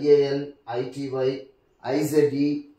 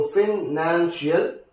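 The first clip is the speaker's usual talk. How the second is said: broken into syllables; slower than usual. Shown as a demonstration. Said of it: "this is the second syllable".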